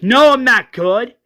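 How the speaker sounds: high, loud anguished outburst; Johnny screams. Acted. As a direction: cry it out in panic. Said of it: "Johnny screams".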